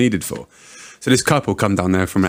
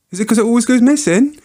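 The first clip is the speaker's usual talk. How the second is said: gleeful punchline; 12 semitones higher than usual. Retold or imitated. Doorman delivers his cheeky pub joke, gleeful. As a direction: land the joke with glee. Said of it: "I said".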